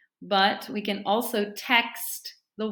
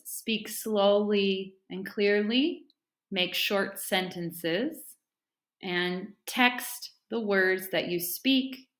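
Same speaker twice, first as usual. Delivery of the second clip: slow recap; slower than usual. Shown as a demonstration. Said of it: "So these three tips".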